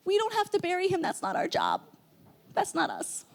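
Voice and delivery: whispered hush to grandma; soft whispered reassurance. Retold or imitated. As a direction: hush her so nobody hears. Hushing grandma at funeral.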